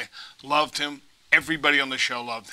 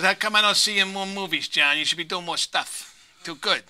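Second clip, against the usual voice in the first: lightly voiced tough wiseguy, a bit higher; Paulie impression; 5 semitones higher than usual. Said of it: "he still talked like this".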